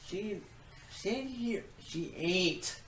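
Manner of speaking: lightly put-on southern accent. Real, not acted. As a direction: drop into a southern drawl. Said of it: "Excuse me for my southern accent".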